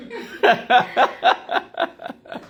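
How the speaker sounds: high, giggling laugh; a run of high chuckles; amused laugh. Real, not acted. Guest reacting to the host's teasing compliment, amused laugh.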